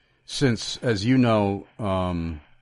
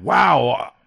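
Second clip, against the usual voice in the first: mock sudden conversion; 5 semitones higher, 3 dB louder than usual. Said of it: "like a bolt of lightning hit her".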